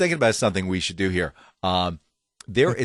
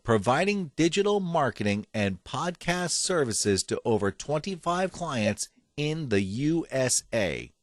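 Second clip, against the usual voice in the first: ad copy read; 3 semitones higher, 5 dB quieter than usual. Retold or imitated. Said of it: "quote unquote".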